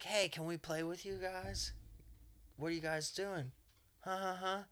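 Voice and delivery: high-pitched imitation of curious kids; high, soft kiddie voice; little kids. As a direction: pipe up like a child wanting to play. Voicing kids in the park.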